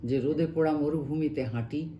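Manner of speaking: measured Bangla verse reading, pausing between phrases; expressive recital of a translated poem; poem recitation. Acted. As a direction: recite it line by line, letting the phrase endings sink.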